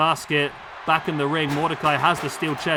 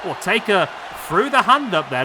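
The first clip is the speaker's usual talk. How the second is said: excited call; 2 semitones higher than usual. Real, not acted. Commentator reacts to big move.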